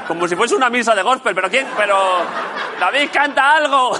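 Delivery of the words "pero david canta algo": mock heckler calling out, pitched high; grito de público exigente. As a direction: shout a request at the stage in jest. Imita al público pidiendo canciones. (grito burlón de espectador)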